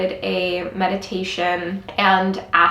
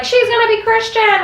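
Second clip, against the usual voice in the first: mock gossip; 13 semitones higher, 4 dB louder than usual. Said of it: "everyone's like".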